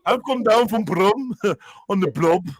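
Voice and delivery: laughing through a put-on Northern accent; slow mock Manc, breaking into a laugh; Manchester accent. Repeating the girl's line for laughs, mock Manchester accent. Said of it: "He's doing a Manchester accent".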